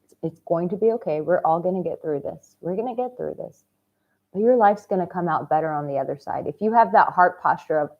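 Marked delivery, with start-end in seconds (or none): 0.0-3.7 calm reassurance. Pretend. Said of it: "a calm yet crazy wild voice".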